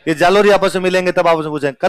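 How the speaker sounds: usual speaking voice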